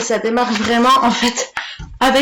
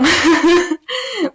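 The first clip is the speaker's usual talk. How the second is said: high-pitched embarrassed giggle; sheepish high laugh; 8 semitones higher, 4 dB louder than usual. Real, not acted. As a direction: giggle after getting it out. Laughing after naming the year.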